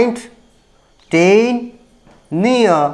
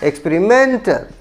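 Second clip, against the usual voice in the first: experimental with the stress on MEN; slowly, experiMENtal, fourth syllable stressed; slower than usual. Shown as a demonstration. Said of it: "stress on the fourth syllable". (experimental में चौथे अक्षर MEN पर ज़ोर)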